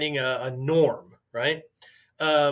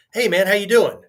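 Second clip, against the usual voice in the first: upbeat, louder chummy hello; breezy greeting; 5 semitones higher, 6 dB louder than usual. Retold or imitated. Someone dodging a question with a breezy, louder greeting. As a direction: toss off a casual hey-man greeting like it's nothing.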